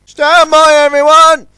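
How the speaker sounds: high, loud command; ordering. A narrator's reading. The launch orders everyone to stand by, loud. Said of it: "ordered the launch".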